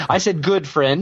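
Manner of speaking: good stressed with rising pitch. Real, not acted. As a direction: hit the word good clearly. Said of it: "did you say his girlfriend".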